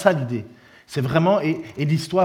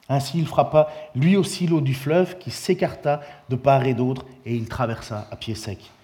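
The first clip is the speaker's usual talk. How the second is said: normal talking voice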